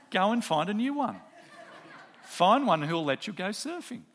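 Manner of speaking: quoting the joke through laughter; laughing retold advice. Pastor retelling a member's surfing joke, laughing. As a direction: chuckle the joke along. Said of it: "one person in the group said".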